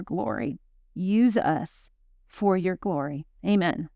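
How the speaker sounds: measured prayer with reverent pauses; earnest spoken blessing; heartfelt prayer. Real, not acted. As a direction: pray it over the listeners, phrase by phrase. Prays a scripture over the group.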